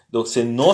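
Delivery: "nos" with an open o; Russian nos. Shown as a demonstration. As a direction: say "nos" clearly. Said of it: "c'est pas nok".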